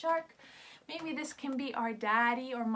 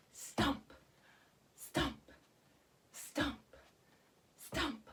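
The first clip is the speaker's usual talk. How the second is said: softer, heavy and spaced out; slow and hard; 5 dB quieter, much slower than usual. Shown as a demonstration. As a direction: plod like a big elephant. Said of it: "let's do it slow and hard".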